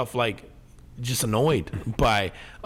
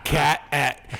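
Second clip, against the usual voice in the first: laughing mock question; slower than usual. Mock call to the mayor.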